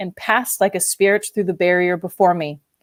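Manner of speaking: usual speaking voice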